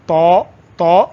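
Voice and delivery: تو with a heavy t and long "aw" vowel; slightly thick. Shown as a demonstration. Teacher shows the letter is read slightly heavy, thickened تو. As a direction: thicken the t of تو a little. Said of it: "تھوڑا موٹا پڑھا جاتا ہے".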